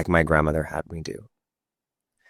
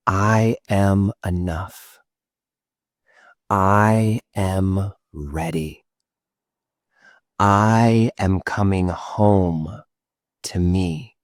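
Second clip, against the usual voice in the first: out loud; much slower than usual. Shown as a demonstration. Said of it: "You're gonna go from loud".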